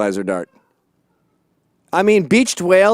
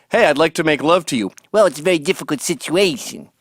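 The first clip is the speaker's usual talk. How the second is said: Tony Soprano impression. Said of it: "my Tony Soprano isn't great".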